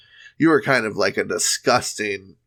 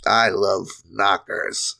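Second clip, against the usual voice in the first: sideline creep voice; 3 semitones lower, slower than usual. Retold or imitated. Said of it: "this freak on the sideline says".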